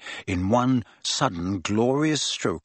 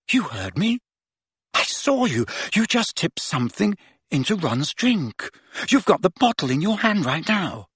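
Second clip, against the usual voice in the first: higher-pitched insistent accusation; accusing; 6 semitones higher than usual. A narrator's reading. Hermione accuses Harry over Ron's drink, accusing. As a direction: press the charge, pitch jumping up.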